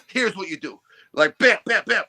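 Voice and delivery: blunt imitation of a Polish accent, punched out; mock Polish accent, each short phrase hit hard; sharp Polish accent. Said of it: "like, if you're putting on a gravestone".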